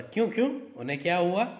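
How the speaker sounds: jolted alert at the news; alarmed question. Acted. Son, startled at the mention of the emir, asks sharply. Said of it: "चौकन्ना होकर".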